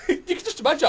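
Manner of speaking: words broken by laughter; laughing. Real, not acted. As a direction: talk through the giggles. Laughing while speaking.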